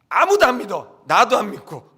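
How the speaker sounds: loud, insistent declaration; loud emphatic preaching. Real, not acted. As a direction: punch it out loudly to the congregation. Preacher stresses nobody believed it.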